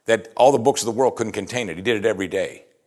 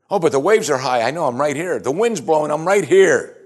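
raised, animated back-and-forth, building louder; insistent reassurance; 5 semitones higher, 4 dB louder than usual. Acted. Jesus answering a worrier in the storm, insistent. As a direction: act out worry met by firm insistence.

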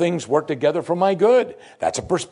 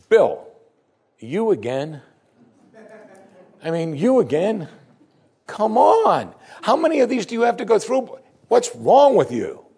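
exasperated reproach; 8 semitones higher than usual. Acted. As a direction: act out weary reproach, rising in pitch as it goes. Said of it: "without reproach means this. God's never gonna say".

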